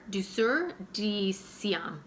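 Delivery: "Douceur de Siam" spelled out slowly, each syllable placed; slow down and sound out "Douceur de Siam"; careful pronunciation. Shown as a demonstration. Naming the hard perfume name, said slowly and carefully. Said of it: "That is the hardest word phrase to say".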